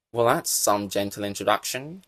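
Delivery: lightly voiced smug race engineer; mock engineer radio. Vlogger mocking the engineer's radio, lightly smug. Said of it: "Just speak normal on the radio".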